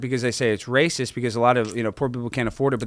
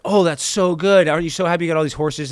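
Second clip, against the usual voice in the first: excited townsfolk; 4 semitones higher than usual. Retold or imitated. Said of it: "the town's like".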